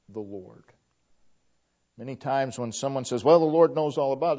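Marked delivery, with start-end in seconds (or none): 3.2-4.4 quick, louder, exasperated brush-off; frustrated tone. Shown as a demonstration. Preacher mimicking a fed-up believer, quick and louder exasperated. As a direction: toss it off fast like you're fed up with waiting. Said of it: "there's a tone of frustration".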